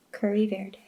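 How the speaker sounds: hushed, slow whisper. Real, not acted. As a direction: whisper it to yourself. Reading label under breath.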